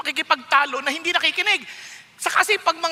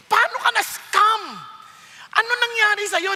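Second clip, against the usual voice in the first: pleading, rising father's voice, higher; worried father; 4 semitones higher than usual. Retold or imitated. Father asking his scammed son how it happened, pleading. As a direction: beg your child to explain, pained. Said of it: "alam niyo yung pakiramdam ng tatay".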